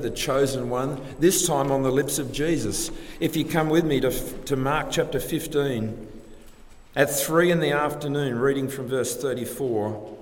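usual speaking voice

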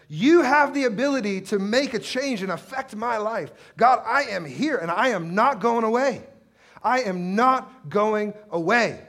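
high, loud, unyielding plea; impassioned, insistent cry to God; gritty defiance. Acted. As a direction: dig in and shout it stubbornly. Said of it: "That's the kind of grit that she had".

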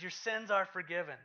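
ringing pronouncement; bold declaration. Retold or imitated. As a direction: announce it with authority. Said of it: "This looks at him and says".

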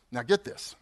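usual speaking voice

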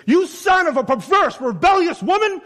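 furious high shout at his son; angry outburst. Acted. Enraged king shouting at his son Jonathan at a feast. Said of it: "Saul's anger flared up".

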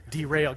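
Derail said loud, punched as a train pun. Shown as a demonstration. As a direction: hit Derail hard and grin. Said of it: "Get that, train?".

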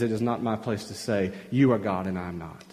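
low, soft, stepping back; humble deference. Acted. Preacher as the prophet deferring to God, humbly. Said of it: "Ezekiel just steps back and says".

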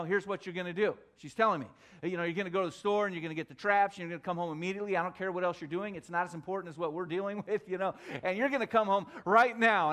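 a hint of a fast, bossy wife giving orders. Husband imitating his wife ordering him to buy mouse traps, lightly voiced bossy. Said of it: "I didn't like her tone".

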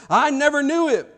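high, loud cursing shout of denial. Retold or imitated. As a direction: spit out the denial like a curse. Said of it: "the last time he did it with a curse".

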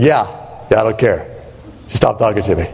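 put-on shrugging off his girlfriend, a low deadpan Puddy; David Puddy impression. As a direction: play the uncaring boyfriend, low and bored. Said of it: "he talks a lot like this".

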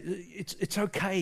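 softly soothing a friend; quiet, gentle reassurance; consoling. Retold or imitated. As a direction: comfort him softly. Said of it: "Stern's trying to console him".

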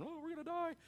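imitating panicked disciples; mock panic. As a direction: wail it in hammed-up fright. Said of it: "they're all freaking out".

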